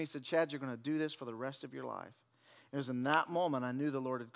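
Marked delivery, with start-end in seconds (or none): 0.2-2.1 softer, lower, hushed voice of God; God's whisper. Retold or imitated. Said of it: "the Lord just whispered to me".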